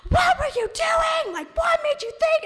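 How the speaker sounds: very high, loud shriek as grandma; freaking out. Retold or imitated. Grandma hears about the crashed car, freaking out. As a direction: scold in a hammed-up screech. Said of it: "she's, like, freaking out".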